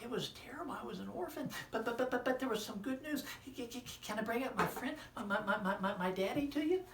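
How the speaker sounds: high, loud squeaky puppet. Acted. Puppet friend greeting the children, high and loud. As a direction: pop up cheerfully as a puppet.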